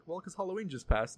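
soft, lightly smart-alecky comeback; quiet, cheeky retort; smart-ass. Retold or imitated. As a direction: toss it off like a mild wisecrack. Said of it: "I was being a smart ass".

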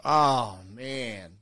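mock groan of letdown, falling away; imitated group groan. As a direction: groan it like a whole embarrassed table. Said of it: "the whole table kinda groans".

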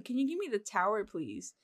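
"tower" with R in place of towel's final L. Retold or imitated. Asking friends for a towel, mispronounced as "tower". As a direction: ask for a towel but say "tower". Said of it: "I would say the same".

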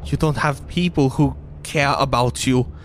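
lightly voiced wounded younger sister; bitter, tearful-girl character; Goliath girl, hurt and angry.

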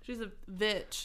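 "vitch", witch begun with a v; made-up blend. Pretend. Joking about the vampire witch, "vitch" with a v. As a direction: slowly land on "vitch".

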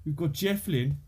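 broad, nasal Black Country accent. Shown as a demonstration. Listing the region's prides to Americans, broad Black Country accent. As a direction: lay on the Brummy nasal vowels. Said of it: "which is where we talk like that".

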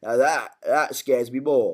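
slow, lightly imitated TV character; slow it down, hint at the character; Alfie. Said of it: "He goes".

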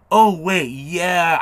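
"oh, that's right!" moment, voice jumping up; sudden recollection. Acted. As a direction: act out a memory suddenly clicking. Signer suddenly remembers the agent's talk.

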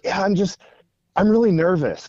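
retold kid's nervous admission; nervous little girl. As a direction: lightly voice a nervous young girl. Voicing nervous little girl in story.

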